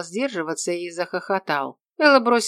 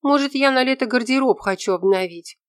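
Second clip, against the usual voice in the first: put-on higher, louder girl's voice, defensive; indignant young woman; 8 semitones higher, 4 dB louder than usual. A narrator's reading. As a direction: defend yourself, pitched up. Offended girl defends herself.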